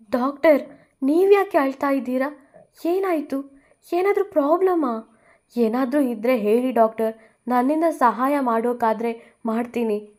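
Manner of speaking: startled and caring; concerned surprise. Acted. Bhuvi asking the crying doctor what happened, concerned.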